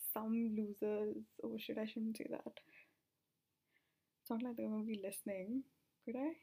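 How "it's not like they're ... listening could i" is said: breathless, catching breath. Real, not acted. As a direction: speak between heavy breaths. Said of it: "I'm very out of breath".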